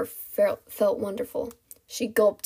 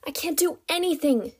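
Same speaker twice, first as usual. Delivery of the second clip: higher-pitched cry, not full volume; screamed protest; 7 semitones higher than usual. Acted. Captive denies her powers, high-pitched cry. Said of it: "she screamed".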